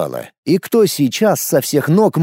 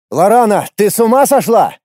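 high, loud, shocked plea; stunned; 7 semitones higher, 4 dB louder than usual. A narrator's reading. Aernurel reacting to Lorana's arrest order, stunned. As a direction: cry out in disbelief. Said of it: "вторил ему ошарашенный Аэрнурель".

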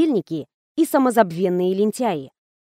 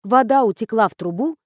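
plain reading voice

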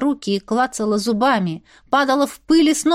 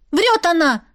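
higher shout; girl crying out an accusation, higher; 7 semitones higher than usual. Acted. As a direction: cry out that she lies. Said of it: "закричала Еня".

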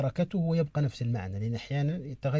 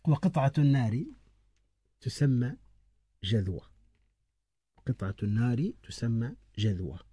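slow dictation. Shown as a demonstration. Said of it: "اكتب".

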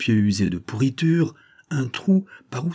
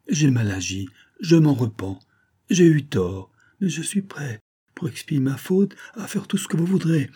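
higher, pleading read with a touch of tears; the peasant begs the fox to release him, higher and urgent; desperate pleading; 4 semitones higher than usual. Acted. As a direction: beg for mercy in a raised voice. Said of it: "Le vilain pleurait toujours".

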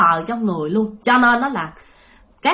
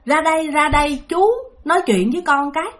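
lightly voiced man calling her out; a hint of a ghost summoning her; mild call; 5 semitones higher than usual. Ghost man calls Ly to come out, light raised call. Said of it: "mà ổng quát".

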